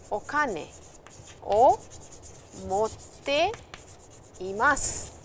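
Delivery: each word set apart with long pauses; slow dictation pace for learners; word by word, slowly. Shown as a demonstration. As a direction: spell out Okane, o, motte, imasu one at a time with gaps. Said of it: "You can also say, for example".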